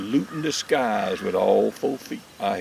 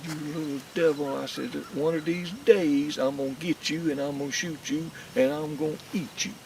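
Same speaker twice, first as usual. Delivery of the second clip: mock threat; 5 semitones higher than usual. Threatening the squirrel, retold.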